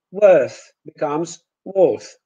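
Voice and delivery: worth then worth with a Polish O, slow; Polish worth contrast. Shown as a demonstration. Teacher contrasting English and Polish worth. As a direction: say worth twice, second with a Polish O.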